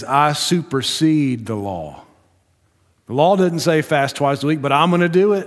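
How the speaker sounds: one-up the law with pride; boastful Pharisee. Acted.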